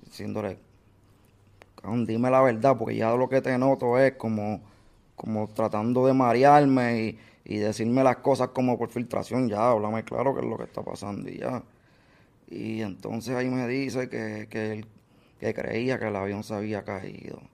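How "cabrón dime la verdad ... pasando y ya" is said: mild mock yell, louder, demanding the truth; retold yelling. Pushing the man on the phone to say what happened, mild retold yell. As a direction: press him hard for the truth. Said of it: "le empecé a gritar".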